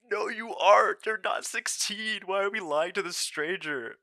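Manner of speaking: high, loud, disbelieving call-out; indignant outburst. Retold or imitated. Calling out coworker's lie to a stranger, indignant and loud. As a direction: shout him down for lying about his age.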